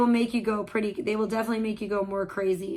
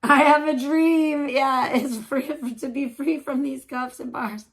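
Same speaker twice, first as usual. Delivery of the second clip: mock speech; 4 semitones higher, 5 dB louder than usual. Mock Martin Luther King quote.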